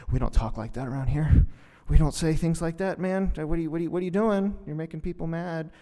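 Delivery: loud, stammering reproach; scolding public relations handler. Acted. PR handler telling Jesus off for his words, loud and flustered. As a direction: scold a client who is embarrassing you. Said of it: "The public relations".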